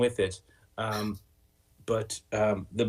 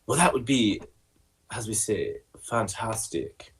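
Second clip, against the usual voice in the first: put-on French accent; 3 semitones higher than usual. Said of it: "Oh, you're French".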